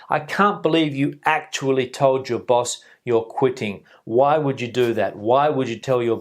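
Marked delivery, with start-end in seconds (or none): 0.1-3.8 "actually" leaned on in disbelief; emphatic disbelief. Shown as a demonstration. Teacher demonstrates emphasis on quitting boss, stressed disbelief. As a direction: stress "actually" to show shock. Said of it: "Again, for that emphasis".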